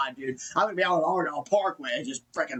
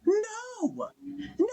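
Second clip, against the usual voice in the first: sharp high no; 3 dB quieter than usual. Real, not acted. Rejects the fans' argument.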